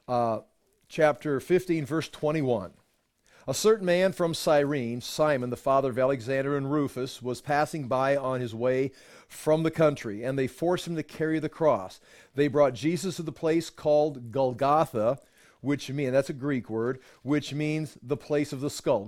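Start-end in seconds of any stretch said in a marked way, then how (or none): 3.5-15.2 measured Bible reading to a class; formal scripture reading voice. Acted. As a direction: read the passage steadily and clearly. Reads scripture aloud.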